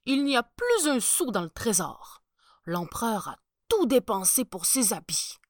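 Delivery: lightly voiced nervous chancellor; worried chancellor. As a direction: press the point like a fretting chancellor. Chancellor pleads.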